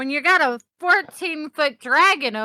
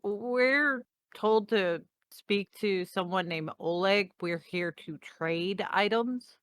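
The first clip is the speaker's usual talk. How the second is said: softer, slower, politely hesitant; a careful, deferential ask; Ray quietly and politely asking for Oleg; polite approach; 2 semitones lower, 8 dB quieter than usual. Acted. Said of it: "Ray's gonna walk over and go".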